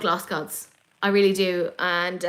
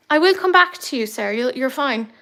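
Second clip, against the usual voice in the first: calling out; 3 semitones higher, 5 dB louder than usual. Real, not acted. Talking to cat at window.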